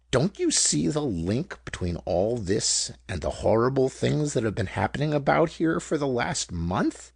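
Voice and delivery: weighty, emphatic question, key words pressed; italic impressiveness. A narrator's reading. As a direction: press each word as if underlined. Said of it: "He spoke now with an italic impressiveness".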